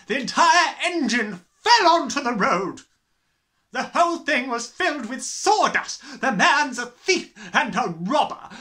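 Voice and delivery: high, loud furious ranting; raging headmistress. Acted. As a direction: rant in outrage. Trunchbull raging about car.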